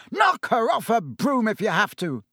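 high, forceful roared order. A narrator's reading. Wood ordering Harry to attack Cho, roaring. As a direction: roar the order across the pitch. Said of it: "Wood roared as Harry swerved".

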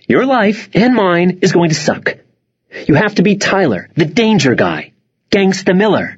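bossy little sister lecturing; lightly voiced sister. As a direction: coach him like a know-it-all sister.

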